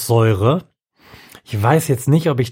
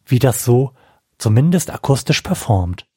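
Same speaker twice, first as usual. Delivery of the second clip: ordinary talk, nothing marked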